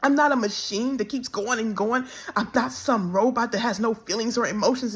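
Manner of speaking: tired, tearful prayer to God; pleading to the Lord, worn out and hurt; weary plea. Real, not acted. Woman tells viewers how she begged God, in a tired tearful plea. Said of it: "And I'm said".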